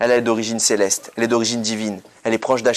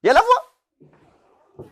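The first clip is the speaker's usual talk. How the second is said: much higher and slow, a sung-out voice; showing his cantor's voice; 3 dB louder, much slower than usual. Shown as a demonstration. Cantor showing his congregation the voice returning, high and drawn out. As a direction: stretch it high like a cantor's chant. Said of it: "on va commencer Kriyat Torah".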